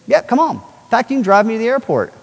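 cheerful reply to best friend Hal; eager yes. Retold or imitated.

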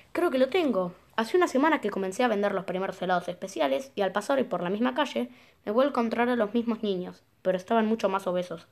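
animated, declaimed reading; lively storytelling in a schemer's words; scheming villain's diary. Acted. Gamer reads villain's diary aloud, animated and pleased.

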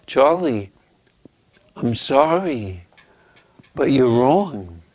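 slow, gentle regret; loving correction. Acted. Teacher lovingly correcting young Charlie, slow and tender. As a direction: let the correction down slowly and kindly. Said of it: "with love in her eyes still".

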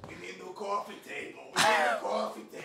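high, loud mock nagging; Jenna. Friend mocking Jenna wanting furniture, high impression. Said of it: "Jenna's over here like".

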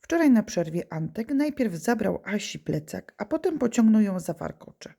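put-on reading a schoolboy's diary aloud to children; lively read-aloud for a class; story reading. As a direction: tell it like a storybook for kids.

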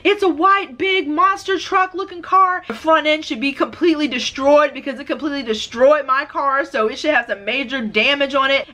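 rushed high panic describing the truck; frantic report. Retold or imitated.

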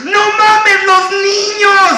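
high, strained cartoon sausage; sausage character voice. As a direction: squeal it like the party sausage. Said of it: "Recuerdan ese de".

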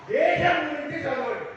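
rousing speech shout; emphatic shout. Real, not acted. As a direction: call it out to the whole room. Speaker urging children about nation.

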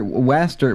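"Waster" said as "WASS-ter", short a; second stab at "Waster", with the vowel of "cat"; mispronounced Waster. Real, not acted. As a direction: misread "Waster" as "wasster". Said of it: "What was that pronunciation of waste?".

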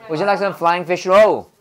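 "Would you like some" quick, then "flying fish roll" in beats; quick front, stressed end. Shown as a demonstration. Teacher modelling the whole question, fast opening then stressed words. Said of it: "앞엔 진짜 빨리 하고요".

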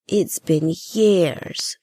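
soft and wistful. Acted. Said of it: "she says softly".

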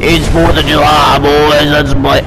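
hammed-up American country twang; attempted Southern country accent. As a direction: put on a country accent for the boys. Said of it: "talk in my country accent".

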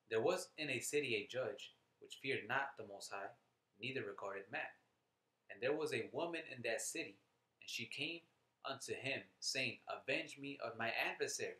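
emphatic, phrase-by-phrase verse reading; scripture reading. Acted. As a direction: declaim the parable in measured phrases. Reads scripture aloud to listeners.

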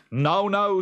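high, slow worried farmer; Jude's voice. Acted. Jude asking his wife what to do, high and slow. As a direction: ask it loud and fretful.

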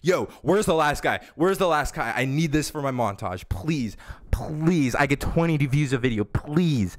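lightly imitated frantic pleading; mock freak-out. Gamer imitating an enemy on Discord begging for montage kills, mock frantic. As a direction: plead like a desperate gamer, half-hearted mimicry. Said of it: "I hear this dude freaking out".

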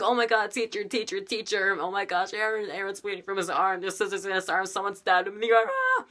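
put-on high-pitched panicked child voice; screaming kids. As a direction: imitate kids shrieking for the teacher. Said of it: "They're frickin' screaming their heads".

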